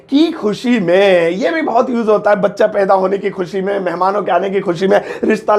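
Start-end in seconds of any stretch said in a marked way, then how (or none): 0.1-1.3 slow repeat. Shown as a demonstration. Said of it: "next वाला है की खुशी में".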